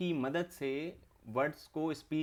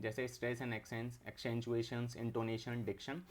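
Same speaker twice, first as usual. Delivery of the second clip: softer, slow list of terms; 3 semitones lower, 5 dB quieter, much slower than usual. Shown as a demonstration. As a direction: read out the list slowly to memorise. Teacher listing terms to remember.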